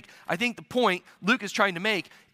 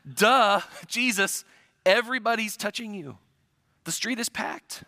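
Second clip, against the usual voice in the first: sarcastic duh; 3 semitones higher than usual. Retold or imitated. Peter telling Jesus the obvious, condescending. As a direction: state the obvious with eye-rolling attitude. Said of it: "an ancient Near Eastern duh".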